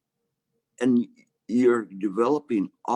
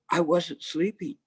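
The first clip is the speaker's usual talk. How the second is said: put-on childlike denial; 8 semitones higher than usual. Monk denies sleeping.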